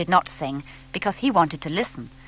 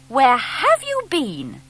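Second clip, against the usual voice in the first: a bit cross; 7 semitones higher, slower than usual. A narrator's reading. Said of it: "She sounded a bit cross".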